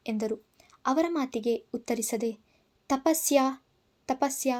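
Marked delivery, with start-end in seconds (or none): 2.9-4.5 a raised call of her name. Acted. Man calling out for Tapasya through the house, raised call. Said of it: "ಕೂಗಿದ ನನ್ನ ಧ್ವನಿ".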